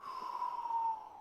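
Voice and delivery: long, drawn-out breathy exhale; servant's weary-sounding sigh before speaking. Acted. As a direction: sigh deeply, lost in thought. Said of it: "She's like".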